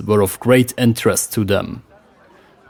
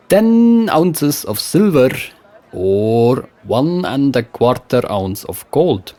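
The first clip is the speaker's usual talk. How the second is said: put-on West Frankish accent; 3 semitones higher than usual. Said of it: "with a West Frankish accent".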